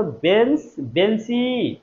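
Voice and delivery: বেঞ্চ, then বেঞ্চি with a drawn-out final ই; teacher showing ই arriving at the end of বেঞ্চি; demonstrated pronunciation. Shown as a demonstration. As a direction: sound out both words, stretching the "ee" ending of বেঞ্চি. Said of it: "মুখে উচ্চারণ করেন তো".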